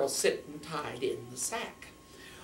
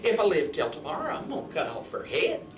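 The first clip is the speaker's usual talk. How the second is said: put-on grumbling old man; 5 semitones higher, 4 dB louder than usual. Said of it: "He said".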